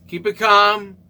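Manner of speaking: pressing the words harder the second time. Retold or imitated. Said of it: "I thought to myself".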